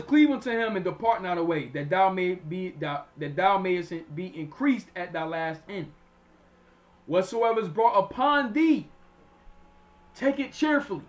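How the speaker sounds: slow, deliberate Bible reading; measured preacher reading aloud; scripture reading. Acted. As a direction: stretch the verse out with rising force.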